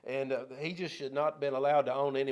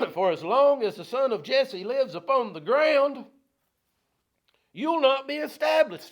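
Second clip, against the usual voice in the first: angry Saul; 9 semitones higher, 6 dB louder than usual. Acted. Preacher voicing Saul's rage.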